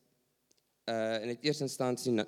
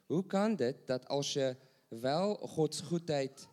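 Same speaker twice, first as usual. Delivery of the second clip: normal talking voice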